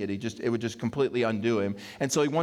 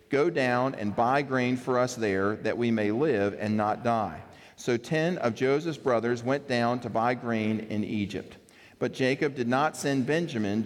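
scripture reading. Acted. Pastor reading Genesis to the congregation, measured reading. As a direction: read the passage to the congregation, steady. Reads the scripture passage aloud.

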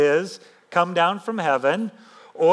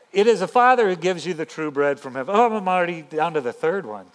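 ordinary delivery

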